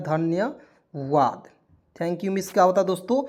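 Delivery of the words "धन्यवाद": धन्यवाद drawn out very slowly, syllable by syllable; slow repeat. Shown as a demonstration. Teacher repeats the meaning for students, very slow. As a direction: stretch धन्यवाद out so students catch it.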